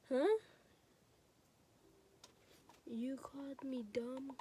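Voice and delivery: slow, whispered incredulous question; hushed, slow disbelief; disbelieving whisper. Retold or imitated. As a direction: breathe it out slowly in shock. Retelling her disbelief at being insulted.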